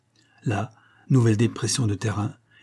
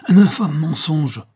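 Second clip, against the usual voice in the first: slow, loud, higher denial; indignant cry; 6 semitones higher, 7 dB louder, slower than usual. A narrator's reading. Trainer denies the accusation, crying out indignantly. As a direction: draw out the outraged cry. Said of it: "s'écria-t-il".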